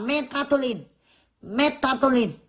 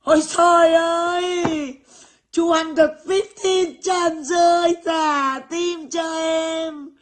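high, drawn-out mock wailing; over-the-top slow celebration, pitched high; hammed-up triumph; 6 semitones higher, much slower than usual. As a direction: stretch every exclamation out in a high, showy cry. Celebrates her English, hamming it up.

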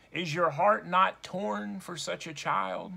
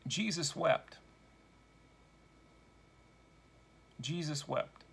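sorrowful; 3 semitones lower, 7 dB quieter than usual. Acted. Grief after the cruel scene.

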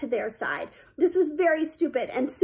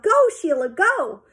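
high, louder cheering yell; 5 semitones higher, 5 dB louder, slower than usual. A narrator's reading. Coach yelling to Sheila as she swims, urging. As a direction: urge the swimmer on. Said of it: "he yelled".

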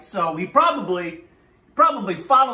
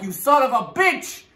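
mock outrage, pitched up; indignant crow; 7 semitones higher than usual. Duped crow cursing the fox, mock-indignant. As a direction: curse the trickster in high mock anger. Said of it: "And the crow's like".

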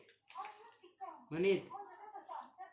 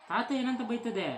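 slow, raised sing-out question; 6 semitones higher, 5 dB louder, slower than usual. Real, not acted. Coaxing a baby to respond.

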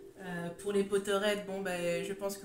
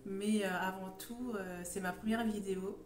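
sore throat voice. Real, not acted. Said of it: "j'ai mal à la gorge".

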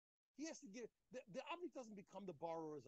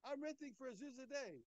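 voicing Rav Chama's idea; 10 semitones higher, 6 dB louder than usual. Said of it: "He says, he says".

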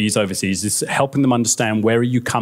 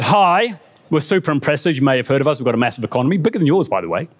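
boastful foreign visitors; 3 semitones higher than usual. Acted. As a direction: lightly act out a brash delegation introducing itself. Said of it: "Other nations arrived and said".

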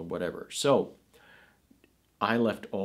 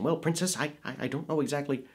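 higher, forward-in-the-mouth nerdy voice, quick and stammering; nerdy android; 5 semitones higher, faster than usual. Retold or imitated. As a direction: play a fussy nerd, words pushed to the front of the mouth. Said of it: "He kind of used this sort of a voice".

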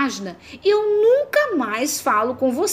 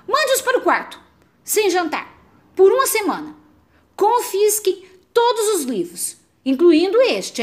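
calling to parents; 5 semitones higher than usual. Acted. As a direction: shout for the parents like a snitching kid. Tattling to the parents.

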